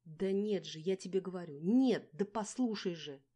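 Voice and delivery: shrieking at the caller, pitch climbing to a loud final plea; shrill phone yelling. A narrator's reading. Sleepy, angry friend shrieking at a caller on the phone. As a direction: yell into the receiver, sleepy and cross. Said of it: "визгливо кричала в трубку".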